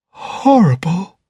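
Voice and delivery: slow, hushed horror; horrified murmur. Acted. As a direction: breathe it out over the corpse. Butler views the body.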